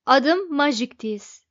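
loud, slow self-introduction. A narrator's reading. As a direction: announce it slowly and loudly. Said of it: "dedi yüksek sesle".

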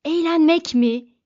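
"Eğlenmek mi?" yelled high and loud in disbelief; shouting. A narrator's reading. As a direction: bark the question back, incredulous. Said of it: "diye bağırdı Arthur". (inanamayarak yüksek sesle "Eğlenmek mi?")

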